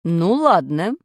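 a lightly voiced stern ladno; stern teacher. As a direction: settle it sternly. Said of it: "строго сказала учительница пения".

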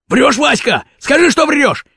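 high, rising demand; insistent accusation. A narrator's reading. Kurochkin demands that Vaska take it back, insistent.

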